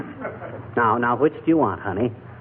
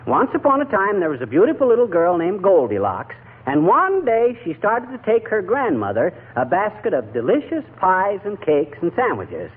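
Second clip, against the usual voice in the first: higher, lilting once-upon-a-time telling; storytelling voice; 4 semitones higher than usual. Acted. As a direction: spin a fairy tale for a sick child.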